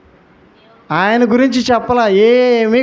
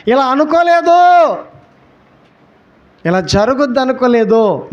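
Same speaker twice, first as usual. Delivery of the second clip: a hint of Jonah crying out, higher; Jonah's lament; 5 semitones higher than usual. Jonah trapped in the fish, lamenting, higher and pleading. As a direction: voice Jonah's dismay, pitched up.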